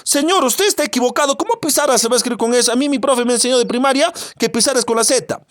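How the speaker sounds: lightly acted pupil correcting someone; mock refutation. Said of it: "vamos a refutar eso".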